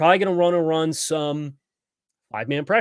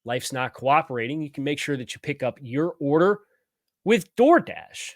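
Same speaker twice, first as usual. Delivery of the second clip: ad read. Acted. Sponsor ad read.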